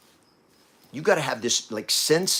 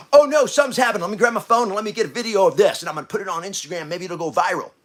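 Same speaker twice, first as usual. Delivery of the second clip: mock bystander; 5 semitones higher than usual. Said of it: "They go like".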